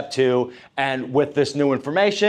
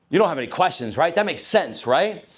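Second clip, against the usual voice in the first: assumptive close; 3 semitones higher than usual. Shown as a demonstration. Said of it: "this is where you do your assumptive".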